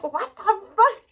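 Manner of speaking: high, loud mock outrage with a laugh. Vlogger shows how she'd defend her fans, mock outrage. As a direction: play at being offended, laughing. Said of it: "I'd get so mad".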